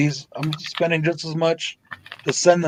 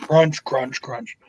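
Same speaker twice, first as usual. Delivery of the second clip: mock crunch sounds; much slower than usual. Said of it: "Sounds like a fucking Asmer video".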